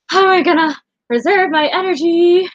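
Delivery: mock frantic worry; panicked. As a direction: fret out loud about energy. Retelling her panicked thoughts.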